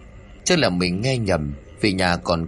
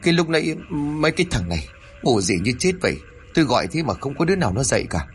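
rattled; 5 semitones higher, faster than usual. Acted. Husband shaken after fright.

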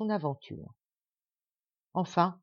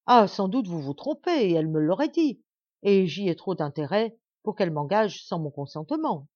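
louder, haughty refusal; indignant protest; 5 dB louder than usual. Acted. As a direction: brush him off as mistaken. Princess protests. (princesse indignée)

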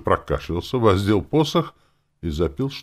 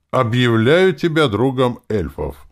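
solemn proclamation; 8 semitones higher, 8 dB louder than usual. A narrator's reading. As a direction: proclaim it like a ritual. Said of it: "торжественно проговорил Гэллендал".

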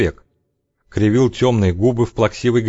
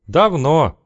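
gloomy reply; 6 semitones higher than usual. A narrator's reading. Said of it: "уныло отозвался Шеломов".

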